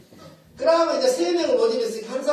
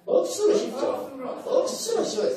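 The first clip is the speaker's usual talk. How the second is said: playful Gyeongsang dialect; 2 semitones higher than usual. Shown as a demonstration. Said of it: "경상도 말로 하면 억지로 쉬운 거고".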